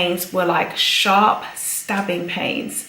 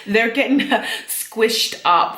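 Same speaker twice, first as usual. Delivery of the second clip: laughing; 3 semitones higher than usual. Real, not acted. Laughing about squished lungs.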